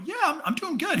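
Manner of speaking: high nervous laugh through the words; awkward laughing reply to lawyer; laughing answer. Retold or imitated. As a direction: laugh it off, a bit caught out. Retelling his own answer.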